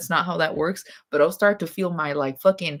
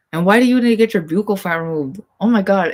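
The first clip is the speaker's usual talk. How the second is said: exasperated; 3 semitones higher, 6 dB louder, faster than usual. Real, not acted. Exasperated rant about buccal fat.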